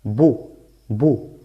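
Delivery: "Bu" with a short Spanish u; short vowel u. Shown as a demonstration. Teacher showing students the damma sound, short vowel "Bu". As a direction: say "Bu" twice, each clipped short. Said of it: "¿cómo se pronuncia?".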